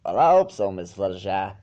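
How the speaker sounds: choked-up shy reply; catch in voice. A narrator's reading. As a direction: voice catching on her name. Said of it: "a peculiar catch in his voice".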